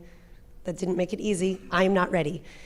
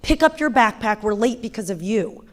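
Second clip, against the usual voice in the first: retold screaming; 2 semitones higher, 5 dB louder than usual. Nine-year-old screaming at the five-year-old, imitated angry yell. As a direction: imitate a kid screaming blame at a younger brother. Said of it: "starts screaming at the five-year-old".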